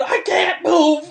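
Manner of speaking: high, long-drawn mock wail; drunken wail. Drunk self answering own thoughts, drawn-out high mock wail. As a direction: stretch it out high and helpless.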